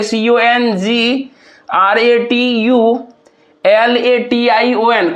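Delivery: slow letter-by-letter spelling of "C O N G ... R A T U ... L A T I O N", broken into groups; syllable breakdown. Shown as a demonstration. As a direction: spell it out slowly in chunks, pausing after "जी" and after "यू". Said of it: "इसको हम लोग किस तरह से तोड़ेंगे".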